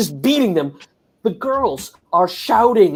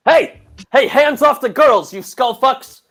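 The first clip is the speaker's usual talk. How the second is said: higher, louder shout at thugs; angry yell; 4 semitones higher, 4 dB louder than usual. Acted. Fan yells at police beating the girls, angry shout. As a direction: bark it across the street at them.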